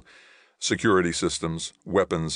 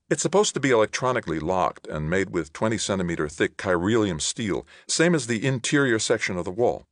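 a hint of a female character, pitched up in places; lightly voiced Ilona; 5 semitones higher than usual. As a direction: lightly voice the woman explaining the defenses.

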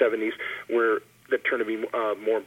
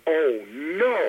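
audience groan; 6 semitones higher than usual. Retold or imitated. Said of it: "about half the audience went".

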